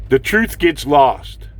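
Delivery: slow it right down on "The truth gets lost."; slow, weighty repeat. Acted. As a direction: let it sink in. Slowed repeat.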